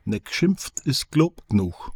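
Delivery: slow, dry Franconian dialect; slow Franconian dialect phrase, dry and matter-of-fact; slow Franconian saying. Retold or imitated. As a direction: drawl it out like a laconic Franconian. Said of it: "folgt der fränkischen Logik".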